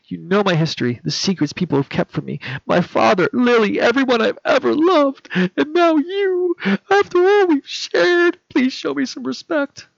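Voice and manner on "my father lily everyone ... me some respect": high, loud and tearful, slowing down; hurt pouring out as she pleads; breaking voice. Acted. Carly pleading with Peter for respect, tearful and strained.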